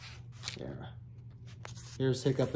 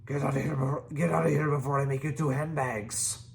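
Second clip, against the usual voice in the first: yelling; faster than usual. Acted. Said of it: "yelled Stoik".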